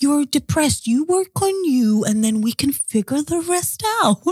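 mad calm. Retold or imitated. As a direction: imitate him calmly handing down advice. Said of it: "he's mad calm".

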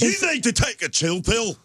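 high, loud fake Scottish outburst; hammed-up Scottish shouting; mock Scottish yell. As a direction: rant like a riled-up Scotsman, played for laughs. Continuing the angry Scottish bit.

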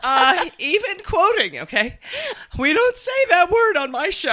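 high mock anchor voice, primly scolding; mocking a TV anchor scolding on air; prissy anchor. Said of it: "she was like".

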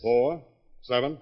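mock the cop's question; loud sarcastic counting; sarcastic offer. Owner sarcastically offering witnesses.

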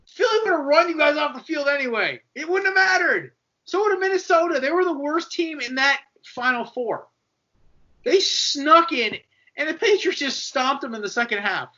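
mocking the team's management in a high, loud voice; mocking Jaguars management. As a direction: whine it like a sore team executive clinging to past glory. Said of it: "Jaguars management is clinging on".

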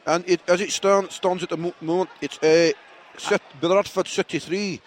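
halting attempt at a Scottish commentator; Scottish commentary. Shown as a demonstration. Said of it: "I'm gonna do a Scottish commentary".

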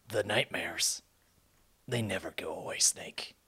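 gravelly whispered soldier voice; Snake impression. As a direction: breathe it out like a haunted soldier. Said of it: "our best snake impression".

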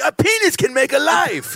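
high shouted wonder; mock amazement. Telling the new dad, in high mock amazement. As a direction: proclaim it like a revelation.

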